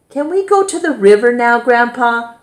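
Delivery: put-on quick, high child's voice; eager boy. A narrator's reading. Boy begs his grandpa to go to the river, quick and high. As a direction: rush it out like an excited kid.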